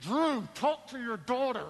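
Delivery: words pushed through clenched teeth, locked jaw. Retelling Kim's words to him about their daughter, imitating Kim through clenched teeth. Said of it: "She talks to me through her teeth".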